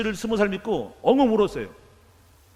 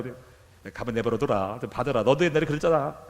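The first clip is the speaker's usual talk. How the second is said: God's answer; 6 semitones lower than usual. Retold or imitated. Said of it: "그러시더라고요".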